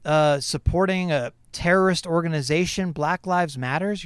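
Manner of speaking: a touch of taunting troll voice; mock racist sneer. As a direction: lightly imitate a sneering troll. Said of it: "come out and say".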